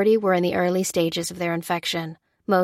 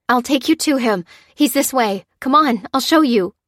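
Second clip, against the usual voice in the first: imploring; 6 semitones higher, 6 dB louder than usual. A narrator's reading. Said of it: "she implored".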